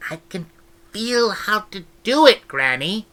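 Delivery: lightly voiced girl, eager. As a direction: insist you can do it, bright and young. Esk pleading with Granny.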